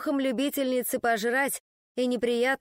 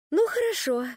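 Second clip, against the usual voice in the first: weary sigh; 9 semitones higher than usual. A narrator's reading. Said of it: "вздохнула я тягостно".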